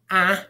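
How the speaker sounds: "A," said as the short vowel of dad. Shown as a demonstration. Teacher models the short vowel, sounding it out. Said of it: "as in dad".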